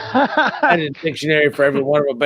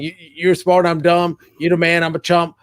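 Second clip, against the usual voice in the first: mock groveling; 4 semitones higher than usual. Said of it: "Just stringing me a copas".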